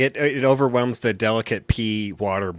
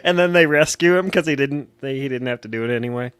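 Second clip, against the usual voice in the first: laughing; 4 semitones higher than usual. Real, not acted. Laughing while retelling.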